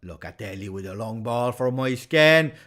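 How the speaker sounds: commentary climbing steadily to a loud, high peak; building excitement. Real, not acted. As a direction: build from steady call to near shout. Live play building toward a chance.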